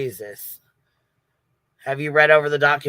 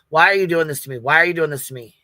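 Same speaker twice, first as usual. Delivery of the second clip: retold exasperation, a bit louder; imitating pissed husband; 4 dB louder, faster than usual. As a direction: mimic an aggrieved husband demanding answers. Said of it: "her husband was pissed".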